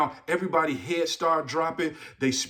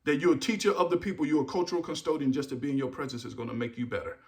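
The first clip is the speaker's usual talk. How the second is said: fond retelling; 5 semitones lower, 7 dB quieter, faster than usual. Retold or imitated. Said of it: "I will tell them all of the time".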